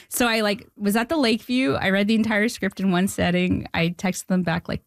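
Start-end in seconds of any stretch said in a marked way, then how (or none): none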